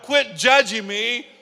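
a hurt patient pleading with the staff to stop judging; pained protest. Retold or imitated. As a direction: shout out the pain and the hurt. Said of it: "You'd be like".

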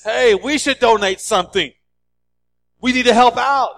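a hint of a chirpy chicken. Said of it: "the chicken looks at the pig and says".

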